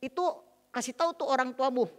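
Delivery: mildly re-enacted nagging at a husband; a touch of angry wife; retold harsh scolding. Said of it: "Kalau lagi marah saya panggil namanya dengan kasar".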